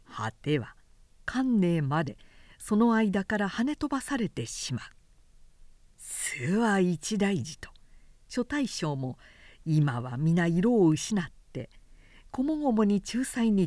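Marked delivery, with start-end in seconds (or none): 6.0-7.6 whisper. Acted. Generals alarmed aside.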